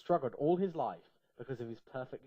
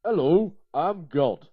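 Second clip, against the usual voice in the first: put-on God in a loud, higher Yorkshire accent; a loud, broad Yorkshire greeting; thick Yorkshire accent; 5 semitones higher, 15 dB louder, slower than usual. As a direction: introduce yourself in broad Yorkshire, loudly. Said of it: "spoke with a thick Yorkshire accent".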